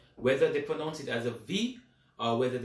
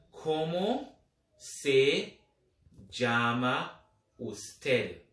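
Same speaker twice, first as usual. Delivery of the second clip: slow polite form; much slower than usual. Shown as a demonstration. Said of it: "in the polite way".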